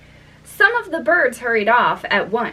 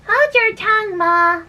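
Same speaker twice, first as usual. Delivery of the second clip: high, loud snap; snappish; 10 semitones higher, 4 dB louder than usual. A narrator's reading. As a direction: snap back at her. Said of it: "a little snappishly".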